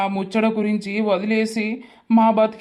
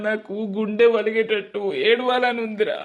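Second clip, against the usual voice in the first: crying. Acted. Grieving son after father's betrayal.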